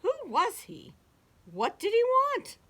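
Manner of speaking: high, loud urgent questions; crying out. A narrator's reading. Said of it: "the animals cried".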